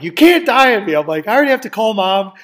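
high, loud, desperate half-joking plea; urging a collapsing friend to hang on; frantic pleading shout. Retold or imitated. To his friend with a bad heart, frantic shout.

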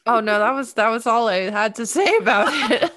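breaking into a laugh while speaking; amused, laughing protest; laughing admission. Real, not acted. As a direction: admit it with a laugh. Caught out by co-host, amused.

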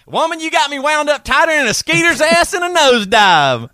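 put-on redneck Southern accent. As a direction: squeal it like an over-the-top country boy. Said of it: the speaker reading.

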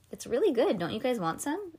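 talking while chewing; words round a bite of cupcake; mouth full. Acted. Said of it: "with her mouth full".

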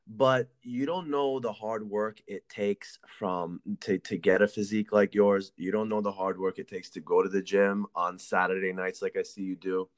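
choppy breaking-up call line; buzzy glitchy call audio. Real, not acted. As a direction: voice breaking up over a bad connection. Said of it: "I think I'm losing you".

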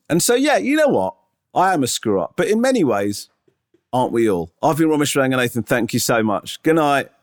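high, earnest stand-up closing; comedian's show sign-off. Retold or imitated. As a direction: wrap up like a sincere comic. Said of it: "like the end of an Edinburgh show going".

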